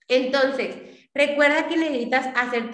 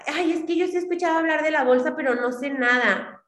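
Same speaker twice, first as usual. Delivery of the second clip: mock whiny excuse; 3 semitones higher than usual. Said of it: "aquí dicen".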